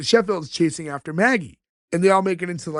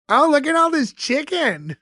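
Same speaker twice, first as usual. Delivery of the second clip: Fran impression; 9 semitones higher, 3 dB louder than usual. Mimicking Fran at a catered party.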